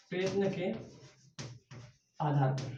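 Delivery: broken into slow soft chunks; "प्रयत्न के" then a pause, then "आधार पर", both soft and slow; slow dictation. Shown as a demonstration. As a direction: dictate it for students to copy.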